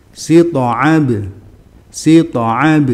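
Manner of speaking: "Sito'ab" with heavy to and light bounced b; thick to, normal ba. Shown as a demonstration. Teacher models "Sito'ab" for students, heavy to, ordinary bounced b. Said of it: "Toknya tebal, baknya biasa".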